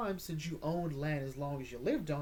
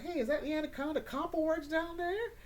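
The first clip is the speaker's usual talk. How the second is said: put-on voice; 13 semitones higher than usual. Gentleman's greeting acted in voice.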